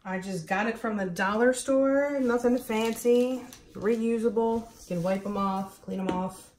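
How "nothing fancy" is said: usual speaking voice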